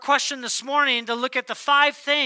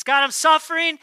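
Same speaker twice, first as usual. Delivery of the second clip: pleading cry; 4 semitones higher, 5 dB louder than usual. Pretend. Believer cries out to God.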